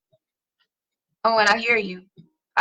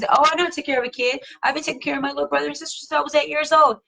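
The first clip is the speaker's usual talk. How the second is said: mock bragging kid; faster than usual. Preteen bragging about babysitting siblings, quick and smug.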